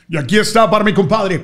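booming vintage radio announcer voice; old-time radio announcer. Retold or imitated. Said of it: "con voz de locutor de radio antiguo".

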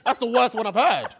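laughing through disgust; appalled, laughing as he speaks. Real, not acted. Reacting to gross comment.

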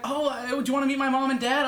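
mock sweet teen asking; girlish voice. Teen girl asking him to meet parents, mock girlish. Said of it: "and she's like".

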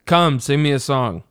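offhand, lightly imitated command; Denethor. Imitating a bored lord asking for entertainment mid-meal, casual. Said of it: "it's the casualness of how he says it".

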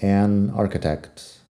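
"an architect" slowed, the n linking into "architect"; slow linked an. Shown as a demonstration. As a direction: drag "an" and join it to the vowel. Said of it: "con an".

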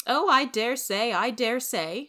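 put-on high, loud, scornful old busybody; snorting disdain. Rachel scoffing at Marilla's question, high and loud. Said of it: "Missus Lynde snorted".

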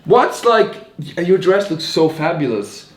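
hammy scripted praise; overdone compliment. Acted.

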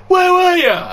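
high, loud, laughing question; laughing high mock question. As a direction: ask it through laughter. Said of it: "Pink Polo says to me".

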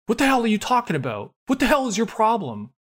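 high, mocking cartoonish outburst; repeating what the hell in a silly high voice; mock angry character. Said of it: "this is the character who says "hell" a lot".

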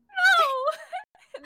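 sudden high yelp as Xiangling; character shout. Retold or imitated. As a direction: burst out with a playful cry. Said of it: "and then she just, like".

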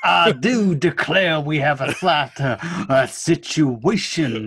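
slow, mock American Southern accent. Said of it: "they'll do a Southern sort of accent".

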